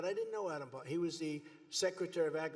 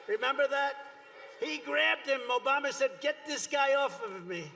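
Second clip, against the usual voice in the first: louder, higher animated telling; hammed-up louder retelling; excited retelling; 7 semitones higher, 5 dB louder than usual. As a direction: tell it with a raised, amused voice. Retelling Obama being grabbed.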